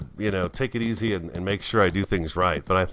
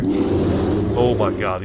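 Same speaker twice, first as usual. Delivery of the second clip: scared; 6 dB louder, much slower than usual. Real, not acted. Fleeing a grizzly bear in game.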